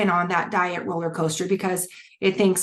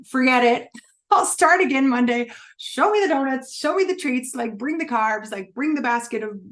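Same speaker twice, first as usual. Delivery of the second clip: giving up; 4 semitones higher than usual. Retold or imitated. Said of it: "you're like".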